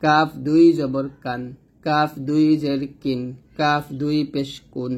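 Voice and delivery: measured recitation with a light, forward k in কাফ; syllable drill keeping the consonant of কাফ light; thin kaf drill. Shown as a demonstration. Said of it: "এরকম পাতলা হবে".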